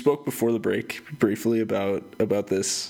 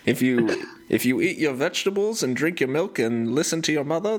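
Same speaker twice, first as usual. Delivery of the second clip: put-on old-timey commercial voice; 4 semitones higher than usual. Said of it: "record an old-timey, like, commercial".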